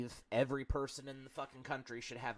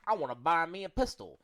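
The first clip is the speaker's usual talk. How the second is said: put-on southern accent; 4 semitones higher, 6 dB louder than usual. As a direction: play a Southern gun-store customer in a Southern accent, a bit louder. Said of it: "I like how you say that with a southern accent".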